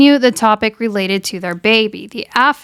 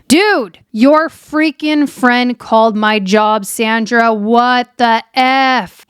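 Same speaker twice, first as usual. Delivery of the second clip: drawn-out, indignant mimicry; mock mad; much slower than usual. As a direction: act out a guy who is really mad. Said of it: "he's, he's really mad".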